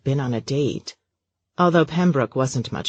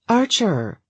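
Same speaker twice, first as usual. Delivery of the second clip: calling out; 8 semitones higher than usual. A narrator's reading. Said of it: "she called more than once".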